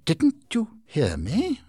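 high, loud, slow impatient demand. Acted. Heep demanding why Micawber stays, impatient and loud. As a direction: press him, losing patience. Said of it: "asked Heep impatiently".

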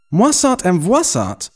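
slow, high-pitched incredulous echo; astonished exclamation. A narrator's reading. Bewildered husband repeating the two names, exclaiming. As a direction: exclaim both names in rising disbelief. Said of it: "I exclaimed".

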